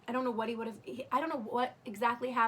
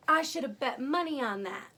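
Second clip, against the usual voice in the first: higher, louder imitation of a gloating nurse; mocking nurse's jab; 4 semitones higher, 6 dB louder than usual. Nurse gloats to labouring patient, mock crowing.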